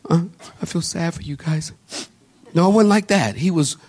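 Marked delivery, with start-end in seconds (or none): 0.1-1.7 soft, quick, half-hearted fake sniffle; lightly mocking weak sadness; mock sniffling. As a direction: imitate a shallow little cry. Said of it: "and sniffling like".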